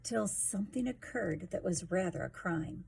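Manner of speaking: put-on lively sing-song reading to a child; rhyming story narration. A narrator's reading. Parent reading a picture book to a child, sing-song. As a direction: read the rhymes to a little one, bouncing along.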